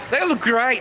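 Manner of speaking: laughing through a friendly compliment; a real laugh breaking into the words. Real, not acted. Laughs while complimenting wig.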